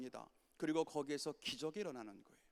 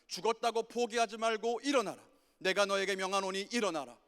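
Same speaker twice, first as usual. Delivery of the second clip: rising commands; 3 semitones higher, 5 dB louder than usual. Retold or imitated. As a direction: build each call until it thunders. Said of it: "그렇게 말씀하시는 거예요". (청년부에게 점점 커지는 하나님의 명령)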